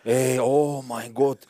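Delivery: slow, drawn-out, loud groan of dismay; exasperated oh-my-God. Real, not acted. Friend asked about the ex-neighbour, exasperated groan. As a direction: stretch it out loudly in disbelief.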